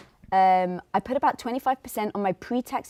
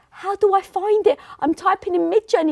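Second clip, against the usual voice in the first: higher-pitched mock complaint; retold bewilderment; 7 semitones higher, 4 dB louder than usual. Retelling a baffled plea for help with Midjourney, bewildered. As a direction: act out being lost with an app.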